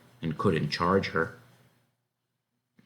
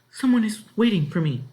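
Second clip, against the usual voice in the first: high, louder anxious voice; timid girl protesting; 13 semitones higher, 5 dB louder than usual. A narrator's reading. Disguised girl tries to explain, anxious. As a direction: start to object nervously.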